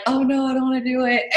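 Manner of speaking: mock protest through a laugh; playful whine breaking into laughter; laughing reluctance. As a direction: retell your own dread, giggling. Retelling her reluctance, laughing.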